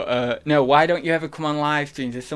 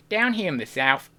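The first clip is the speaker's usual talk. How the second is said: southern accent, getting closer. Shown as a demonstration. Streamer practising after failed tries, southern accent. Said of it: "I can do a good southern accent".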